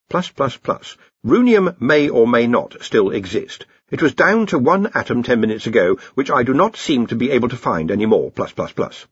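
measured machine-like readout, lightly done; Hex. Acted. Thinking machine answers the wizards about a lost element, measured. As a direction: recite it as an impersonal report.

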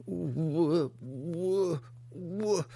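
high, halting monster voice; struggling monster stammer. Acted. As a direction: force each sound out painfully. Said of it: "the Hookar struggled to reply".

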